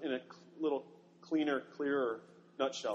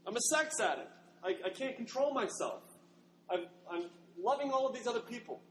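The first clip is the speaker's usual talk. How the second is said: higher, pleading self-reproach; a slave woman confessing her worthlessness, higher and pleading; despairing confession; 6 semitones higher than usual. Acted. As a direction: pour out shame in a raised voice. Gomer's despairing inner confession.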